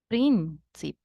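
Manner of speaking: "Príncipe" with a firm, lengthened first syllable "Prín"; stress on PRIN. Shown as a demonstration. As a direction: lean on "Prín", then let "cipe" drop. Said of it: "The strongest part of the word is".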